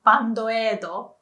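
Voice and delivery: "bandoedo" in even Japanese syllables, ban-do-e-do; Japanese pronunciation. Shown as a demonstration. Teacher quoting Tokyo area people, Japanese pronunciation. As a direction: say "bandoedo" with full Japanese vowels. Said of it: "a lot of people would say".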